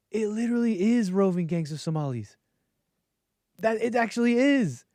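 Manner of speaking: incredulous reveal. Real, not acted. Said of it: "reveal of the punchline".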